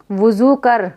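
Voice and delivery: वुज़ू with a long final oo; drawn-out maroof vowel. Shown as a demonstration. Teacher reading an example, वुज़ू with long oo. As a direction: stretch the oo ending वुज़ू. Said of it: "इसको खींच कर पढ़ेंगे".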